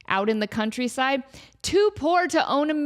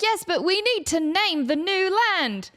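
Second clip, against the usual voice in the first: lightly voiced intern, higher; meek intern; 7 semitones higher than usual. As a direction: patiently insist. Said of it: "the intern's like".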